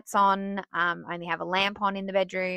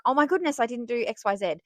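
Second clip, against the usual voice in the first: panicked; 4 semitones higher, faster than usual. Retold or imitated. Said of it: "wake up in a panic".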